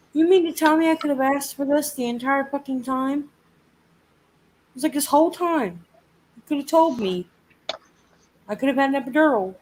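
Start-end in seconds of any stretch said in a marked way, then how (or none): 0.1-3.3 higher-pitched, indignant retort; mildly outraged quoted comeback; annoyed disbelief. Retold or imitated. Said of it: "oh, I was so annoyed". 4.9-9.6 higher-pitched, exasperated retelling; mildly outraged quoted complaint; annoyed disbelief. Retold or imitated. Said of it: "oh, I was so annoyed".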